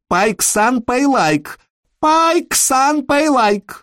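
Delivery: very high-pitched screeching demand; relentless high cries after someone walking away; crying out. A narrator's reading. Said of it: "и кричала".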